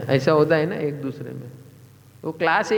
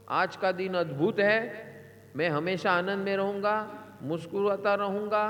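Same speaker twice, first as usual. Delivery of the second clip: solemn vow recitation; 3 semitones higher than usual. Acted. Reciting daily affirmation vow. (संकल्प पाठ की तरह)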